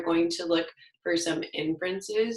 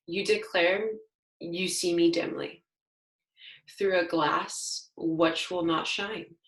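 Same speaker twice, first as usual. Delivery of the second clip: poem reading. Shown as a demonstration. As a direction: read the stanza aloud with care. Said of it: "I'm gonna read it again".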